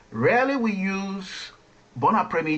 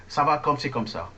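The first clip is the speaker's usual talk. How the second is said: quick, run-together French phrase; fast Parisian; faster than usual. Shown as a demonstration. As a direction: rattle it off like a fast-talking Parisian. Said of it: "people speak very, very fast".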